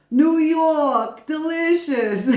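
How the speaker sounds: high, loud, drawn-out reality-show character voice; New York. Retold or imitated. Tarot reader channeling a TV show personality, high loud impression. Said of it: "thinking about New York from that show".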